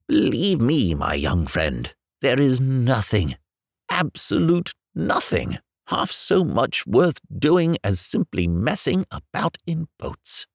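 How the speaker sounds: slow solemn earnest advice; calm gentle wise voice. Acted. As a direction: wise rat, slow and sincere. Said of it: "said the water rat solemnly".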